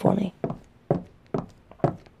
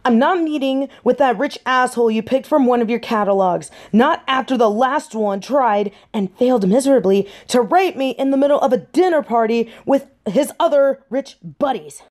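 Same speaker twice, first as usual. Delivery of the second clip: heated, slightly raised pitch; indignant tirade; 3 semitones higher than usual. Acted. Daughter refusing parents' arranged match, indignant. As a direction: let the grievance pour out at them.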